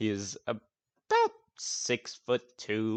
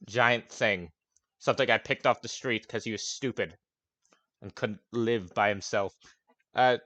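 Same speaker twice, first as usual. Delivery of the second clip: grumpy NPC. Acted. NPC rants about companion.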